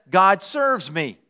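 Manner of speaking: lightly voiced cat, slow and assured; mildly entitled, drawn out; a hint of self-important cat; self-centred cat. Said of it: "A cat says".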